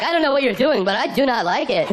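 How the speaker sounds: high-pitched, rattled protest; imitated terrified driver. Truck driver unnerved by the other man's answer, mock terrified protest. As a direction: act a spooked man, pitched high. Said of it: "He was terrified".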